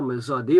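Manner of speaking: "ma zadé" with the D clearly heard; liaison D. Shown as a demonstration. Teacher demonstrating the liaison in "ma zadé". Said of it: "on entend un D de nouveau".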